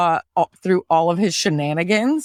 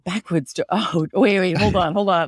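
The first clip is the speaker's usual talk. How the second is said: put-on Southern accent; faster than usual. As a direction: stay in a Southern accent while thinking. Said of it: "now backwoods Georgia".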